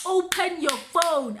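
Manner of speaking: slow, spelled-out retold order; insistent demand. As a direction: order it word by word, slowly. Cop's retold demand to her.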